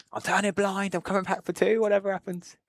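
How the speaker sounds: put-on high, shouted northern accent; Freddie Flintoff northern accent. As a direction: yell it like a northern cricketer running. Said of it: "In his northern accent".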